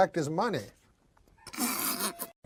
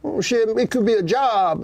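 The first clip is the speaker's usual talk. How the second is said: imitating a guy; 6 semitones higher than usual. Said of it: "Guy goes".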